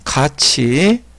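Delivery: "같이" said very slowly [가치], with ch; palatalized reading. Shown as a demonstration. Teacher answering how it reads, "같이" slowly as [가치]. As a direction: draw out "같이" as gachi. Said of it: "어떻게 읽어요?".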